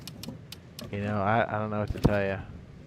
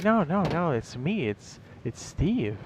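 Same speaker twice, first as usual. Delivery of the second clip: mock protest; 5 semitones higher, slower than usual. Teammate owning up to everyone, mock protest. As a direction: start high on the denials, then sink into hesitation. Mimics sheepish player protesting to others.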